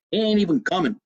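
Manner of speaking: father's voice. Retold or imitated. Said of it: "My father used to say".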